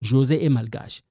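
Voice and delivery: "malgache" with the l sounded before the g; corrected pronunciation. Shown as a demonstration. Teacher correcting the wrong version, L pronounced. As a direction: give "José est malgache" with an audible l in "malgache".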